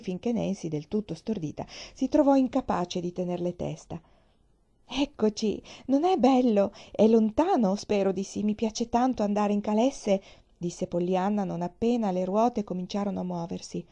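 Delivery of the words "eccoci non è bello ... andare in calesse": put-on bright, chattering child voice, pitched up and louder; a little girl bubbling with excitement on the ride; lightly voiced excited girl; eager little girl. Narrator voices eager child Pollyanna.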